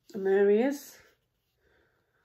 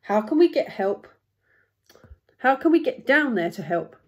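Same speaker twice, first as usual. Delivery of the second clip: louder, mildly anxious storybook plea; a touch of worry, emphatic; worried giraffe; 4 semitones higher, 6 dB louder than usual. Acted. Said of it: "worried the giraffe".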